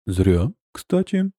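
slow, calm reply; calm objection. Acted. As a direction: calmly push back. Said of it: "спокойно возразил".

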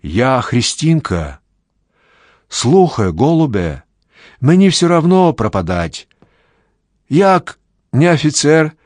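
put-on high, loud Ukrainian peasant girl; pleading peasant girl. A narrator's reading. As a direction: plead desperately in Ukrainian dialect.

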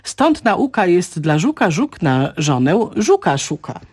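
slow, measured recital of a rhyme; verse recitation. Shown as a demonstration. Language expert quotes a beetle rhyme to listeners, slow recitation. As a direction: recite the couplet slowly to teach the stress. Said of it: "ostatnią zwrotkę Żuka".

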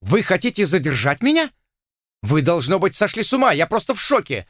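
a pompous lord aghast at being held; shocked lord. A narrator's reading.

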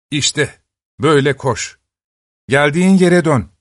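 grinning taunt. Acted. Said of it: "diye sırıtmış öksüz".

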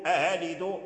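"أألد" as "a-halidu", the second stop eased; second hamza softened. Shown as a demonstration. Teacher contrasting readings of "أألد", second hamza softened. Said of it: "فأبدل الهمزة الثانية ألفا".

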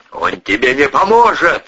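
loud growled threat; growling. A narrator's reading. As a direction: snarl it at her. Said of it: "зарычал Ковторанг".

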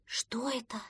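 a soft startled whisper; шёпотом, на выдохе; breathed whisper. A narrator's reading. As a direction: barely breathe the question out. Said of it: "выдохнул утёнок".

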